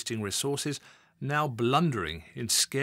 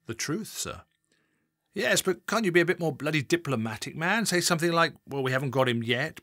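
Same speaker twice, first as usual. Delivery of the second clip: louder, higher scolding senior officer; exasperated boss; 3 semitones higher, 4 dB louder than usual. Acted. Assistant chief constable scolding Adam over the TV interview, exasperated. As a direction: hammer the junior with irritation.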